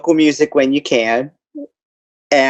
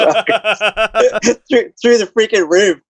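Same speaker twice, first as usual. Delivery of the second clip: glitchy robot-sounding mic; robotic, echoing connection; 6 semitones higher, slower than usual. Real, not acted. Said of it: "like, a weird robot thing".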